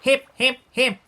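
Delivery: high, loud, celebratory chant; triumphant storybook hurrah; happy hooting cheer. A narrator's reading. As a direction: cheer the hero with stretched-out words. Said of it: "the duckbills hooted happily".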